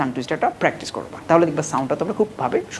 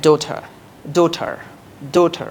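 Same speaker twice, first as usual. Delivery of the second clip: American English; much slower than usual. Shown as a demonstration. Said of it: "in American you can say".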